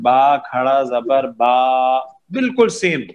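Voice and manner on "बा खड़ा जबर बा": slow "बा खड़ा जबर बा" with the last "बा" held long; Urdu spelling-out drill. Shown as a demonstration. Teacher reading the board Urdu-style, slow drill with held vowels. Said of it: "Urdu वाली तख्ती के हिसाब से पढ़ें".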